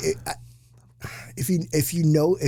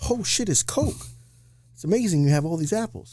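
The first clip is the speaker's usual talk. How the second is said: mock amazement; 6 semitones higher than usual. Character amazed in joke.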